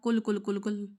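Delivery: کل کل کل کل with a light front ک; thin kaf. Shown as a demonstration. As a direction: say کل repeatedly with the wrong thin kaf. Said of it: "آپ نے تو باریک کاف پڑھ دیا". (کل کل باریک کاف کے ساتھ)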